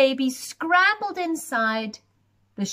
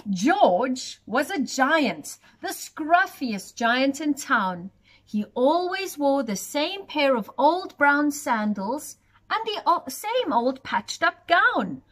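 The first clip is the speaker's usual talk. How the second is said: story narration. A narrator's reading. Reading a picture book aloud to children, lilting storyteller voice. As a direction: read it to little ones at bedtime.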